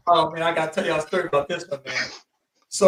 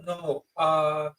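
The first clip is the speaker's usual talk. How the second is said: halting broken English; much slower than usual. Retold or imitated. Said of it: "That's how they'll talk".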